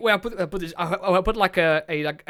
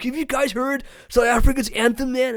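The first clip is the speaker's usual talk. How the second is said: skit host voice; 5 semitones higher than usual. Acted. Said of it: "did a skit".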